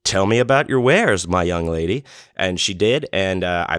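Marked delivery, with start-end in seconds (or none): 0.0-2.0 mock gallant shopper. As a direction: play the courtly gentleman asking about her wares. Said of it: "And I was like".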